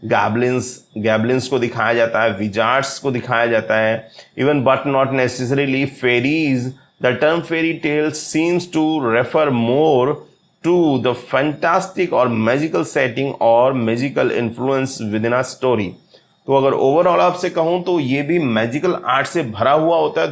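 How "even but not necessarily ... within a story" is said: very slow, every word spelled out for notes; slow dictation reading. Shown as a demonstration. Teacher to exam students, slow dictation pace. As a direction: read it out so students can write it down. Reads English definition aloud.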